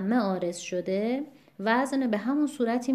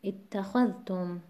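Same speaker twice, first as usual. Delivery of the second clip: اتخذتم with the stress on the syllable خا, said slowly; slow teaching stress on خا; 3 dB quieter, slower than usual. Shown as a demonstration. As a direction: lean on خا in اتخذتم.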